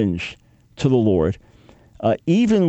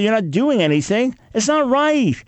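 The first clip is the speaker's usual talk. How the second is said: much higher, pressing exasperated complaint; exasperated protest; 7 semitones higher than usual. Retold or imitated. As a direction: throw the accusation up at God. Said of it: "people are mocking you and say".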